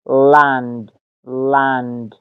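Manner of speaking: لند as English "land", open A; short A pronunciation. Shown as a demonstration. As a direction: model لند carefully with the A of "cat".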